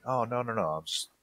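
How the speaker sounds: mock-innocent excuse; playing innocent. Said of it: "I can just be like".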